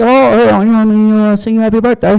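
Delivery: very high mock British voice; a famous singer. A famous singer offers a birthday song in high British accent. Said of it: "And he's like".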